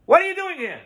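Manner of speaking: high, loud scolding shout; acted scream. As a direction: shout a startled demand at the son-in-law. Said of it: "he screams to his son-in-law".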